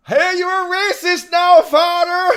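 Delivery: high, loud Irish sitcom yell; Father Ted impression. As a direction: shout it like a shocked Irish priest. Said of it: "My favourite comedy of all time. Straight out of Ireland".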